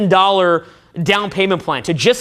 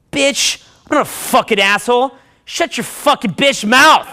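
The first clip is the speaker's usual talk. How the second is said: raised-pitch mock tirade, punched words; angry comeback; 4 semitones higher than usual. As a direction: snap back with escalating outrage. Retold angry comeback to her.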